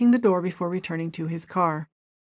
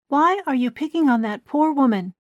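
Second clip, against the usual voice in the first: higher, demanding; angry Gina; 8 semitones higher, 4 dB louder than usual. A narrator's reading. Gina demands why Keith picks on a woman, angry. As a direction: confront him for the poor woman.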